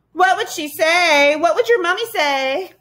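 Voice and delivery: high, loud teasing sing-song; taunting creatures. A narrator's reading. Gaboons baiting a girl about her mother, taunting. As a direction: egg her on with mocking curiosity.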